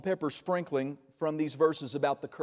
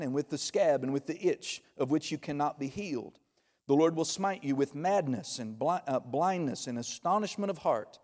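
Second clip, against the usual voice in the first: scripture reading. Acted. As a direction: read the curses solemnly. Continues reading verses.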